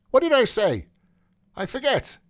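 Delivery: lightly voiced careless young man; Mulligan's voice. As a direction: toss it off carelessly.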